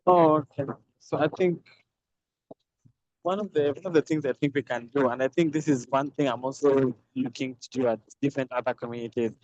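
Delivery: muffled, as if mouth covered. Real, not acted. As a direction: speak through a muffled mic. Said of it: "my voice might be muffled 'cause I'm still in transit".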